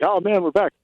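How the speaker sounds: mock excited then deflated; hammed-up ballplayer groan; imitating a deflated player. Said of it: "because, like".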